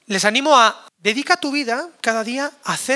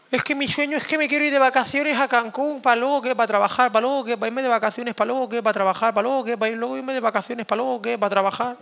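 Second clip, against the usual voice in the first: mocking rambling dreamer; 3 semitones higher than usual. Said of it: "Nano, estás trabajando".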